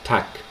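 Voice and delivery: "tak" with a clear open a; tak said slowly. Shown as a demonstration. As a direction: say the Czech word "tak" cleanly. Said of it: "there is the word".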